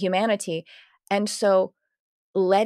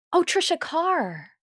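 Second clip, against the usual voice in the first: high, drawn-out oh of sudden recognition; mock a stranger placing her name slowly; 10 semitones higher, slower than usual. Acquaintance recognizing her only by name, in slow mock recognition. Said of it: "she would go".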